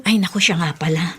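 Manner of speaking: sudden whispered aside, as if remembering gossip; hushed aside. Acted. Neighbor whispering gossip to her friend. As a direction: drop to a whisper to share a secret.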